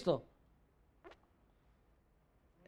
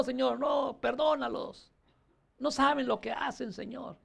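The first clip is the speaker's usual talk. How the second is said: softer, pleading prayer to the Father; soft forgiving prayer; 6 dB quieter than usual. Acted. Praying softly to the Lord for those who wronged him. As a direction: pray it gently, asking mercy for others.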